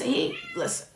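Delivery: high, quiet squeak to cut in; squeaky interruption. Real, not acted. Host cutting in on her co-host with a squeak.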